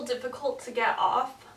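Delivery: muffled through towel; drying face while talking. Real, not acted. Seen 0: Drying face; towel covers mouth from 0.8s, partly at 1.3-1.5s.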